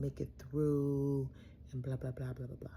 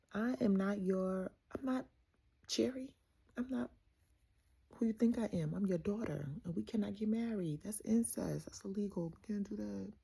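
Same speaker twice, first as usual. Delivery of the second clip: exasperated protest; 7 semitones higher than usual. Retold or imitated. Daughter telling her dad she is not his wife, high and exasperated. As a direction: set him straight, half laughing at the absurdity.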